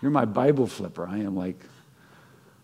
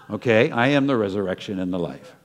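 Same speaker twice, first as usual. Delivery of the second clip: laughing Jesus line; 4 dB louder than usual. Acted. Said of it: "voices Jesus, laughing".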